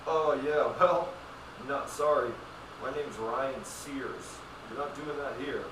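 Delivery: loud, smug comeback; mock clerk retort. Clerk snapping back at a customer, loud and smug. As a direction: puff up like an offended manager.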